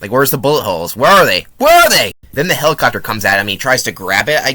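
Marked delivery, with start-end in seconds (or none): 1.6-2.1 high, loud repeated demand; exasperated shout. Real, not acted. Reviewer yells at the film about missing bullet holes, loud. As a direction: yell it in mock outrage at the film.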